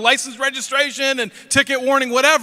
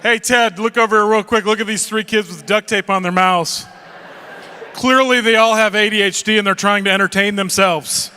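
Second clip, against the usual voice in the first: mock driver; 3 dB louder than usual. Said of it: "they're not thinking".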